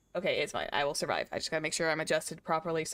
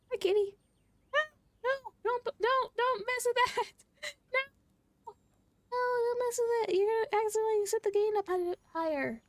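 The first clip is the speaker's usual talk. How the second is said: much higher mock-stern pet voice; pet scolding. Real, not acted. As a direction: gently shoo the kitty off the gear. Scolding cat playing with mic.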